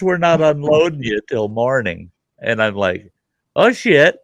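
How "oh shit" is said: higher, louder exclamation of dismay; retold curse on hearing the bad news; dismayed oh shit. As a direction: blurt it out, caught off guard. Hearing they are stuck overnight.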